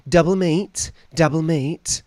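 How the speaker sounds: pushy server. Retold or imitated. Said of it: "they always have to ask you".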